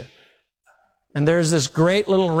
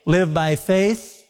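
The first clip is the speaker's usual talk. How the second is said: dismissive scoffer; slower than usual. Retold or imitated. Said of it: "people that will say".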